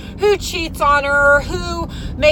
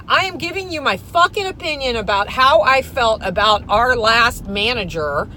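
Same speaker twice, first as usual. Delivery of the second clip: normal talking voice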